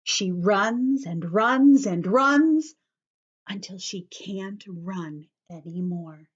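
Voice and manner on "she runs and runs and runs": emphatic. Acted. Emphatic reading.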